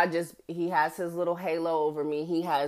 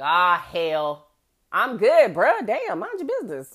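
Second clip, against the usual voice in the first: annoyed brush-off; 5 dB louder than usual. Retold or imitated. Tipsy narrator telling the cop she's fine, irritated and loud. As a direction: brush him off, bruh. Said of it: "And I'm like".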